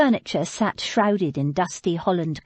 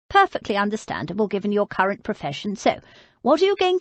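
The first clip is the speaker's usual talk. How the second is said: put-on old lady; 2 semitones higher, faster than usual. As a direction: play her as a frail but stubborn old lady.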